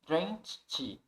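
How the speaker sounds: "drenched" closed with a T sound; T-ending drenched. Shown as a demonstration. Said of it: "É como se aqui também tivesse um T". ("drenched" terminando com som de T)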